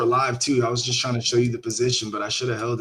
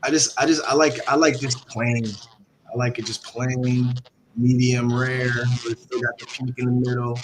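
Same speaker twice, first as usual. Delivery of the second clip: flat, even robotic monotone. Real, not acted. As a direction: speak evenly like a robot. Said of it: "You sound like a robot".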